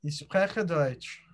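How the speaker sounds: slow, careful "Ich spreche Deutsch"; German pronunciation. Shown as a demonstration. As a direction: model "Ich spreche Deutsch" slowly for learners. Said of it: "I speak German".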